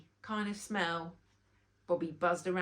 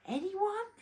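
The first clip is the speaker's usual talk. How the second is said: queen calling out; 11 semitones higher than usual. A narrator's reading. Queen asks the silent crowd.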